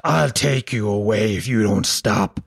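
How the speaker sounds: low, slow, sinister threat; menacing bogeyman. Pretend. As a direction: draw it out deep like a monster. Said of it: "or I scream at him".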